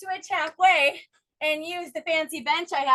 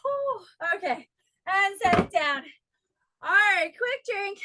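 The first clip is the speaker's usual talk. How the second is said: panting between words after a hard set; winded, catching breath; 2 semitones higher than usual. Real, not acted. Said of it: "Still breathing heavy".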